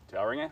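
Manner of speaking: Tauranga tried the English way, "Tow-ringa"; anglicised pronunciation. Shown as a demonstration. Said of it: "how you say it that way".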